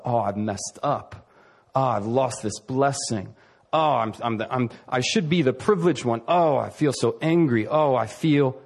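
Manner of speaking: mope over your own loss; self-pitying moan. Retold or imitated. Esau lamenting his lost blessing, self-pitying. Voicing Esau's self-pity.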